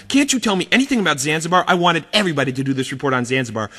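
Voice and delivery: put-on teacher scolding kid about missing Zanzibar report; teacher yelling. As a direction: scold the kid, rushing each line. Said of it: "he's yelling at me".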